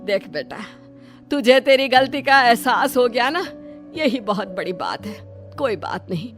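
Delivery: motherly forgiveness; consoling. Acted. Mother-in-law consoles the crying girl.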